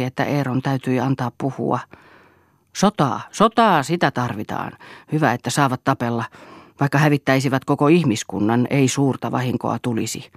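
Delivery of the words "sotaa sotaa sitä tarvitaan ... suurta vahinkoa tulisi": a touch of the stage hero, with emphases; stage-hero declamation. A narrator's reading. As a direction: declaim it mildly, then ease off. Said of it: "lausui kuin sankari lavalta täydellisine korostuksineen".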